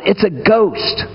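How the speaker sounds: understated, drawn-out cry of alarm; hammed-up fright, held back in loudness; mock terrified cry. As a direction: retell a frightened cry without real volume. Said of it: "And they cry out".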